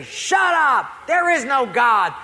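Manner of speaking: high, loud angry shout; acted outburst of an irate neighbor. Atheist neighbor telling the praying lady off, irate shout. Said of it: "the atheist was getting a little irate".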